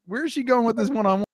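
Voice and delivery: high, puzzled mock question; wondering aloud, hammed up; puzzled inner voice. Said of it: "So I was".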